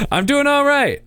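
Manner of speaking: lightly voiced old man; a hint of old man. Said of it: "So here comes old man voice".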